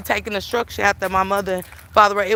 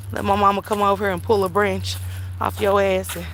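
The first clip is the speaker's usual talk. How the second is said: ordinary talk, nothing marked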